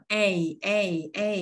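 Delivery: "A" glided from E up into I; separate, clearly modelled "A" sounds; gliding diphthong. Shown as a demonstration. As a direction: lift the jaw to close each "A". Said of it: "âm Y thì giật cái hàm của mình lên".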